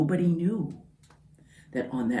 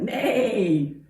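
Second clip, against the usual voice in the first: horse neigh; 5 semitones higher than usual. Acted. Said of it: "Horse said".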